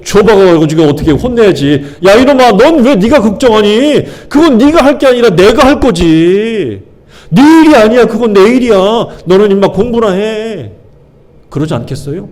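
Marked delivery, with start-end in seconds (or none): 2.1-10.7 scolding parent. Pretend. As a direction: tell the kid off like an exasperated parent. Parent scolding a worrying child. (걱정하는 자녀를 꾸짖는 부모처럼, 높고 크게 혼내는 목소리)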